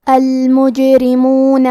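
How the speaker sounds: المجرمون very slowly, the jim bounced; qalqalah on jim. Shown as a demonstration. Teacher demonstrating qalqalah to students, very slow. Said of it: "حرف الجیم کو ہلاتے ہوئے یہ کلمہ کو پڑھیں گے".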